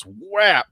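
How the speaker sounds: drawn-out cartoon punch noise; cartoon whap. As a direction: imitate a cartoon smack. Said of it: "And like a cartoon".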